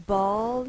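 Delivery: "bull" said with a loud uh sound between B and L; schwa demo. Shown as a demonstration. Teacher to students, showing the schwa in able. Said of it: "That's when we say".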